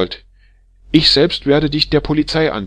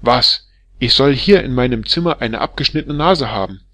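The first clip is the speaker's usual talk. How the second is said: much louder and higher, raging tirade; furious scolding; 4 semitones higher, 7 dB louder than usual. Acted. Wife berating the barber as a drunken scoundrel, furious yelling. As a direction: tear into him like an outraged wife. Wife rejects keeping the nose.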